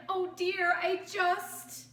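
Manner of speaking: high loud worried cry; fearful. Acted. Kevin clinging to his tree, high and fearful. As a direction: panic rising.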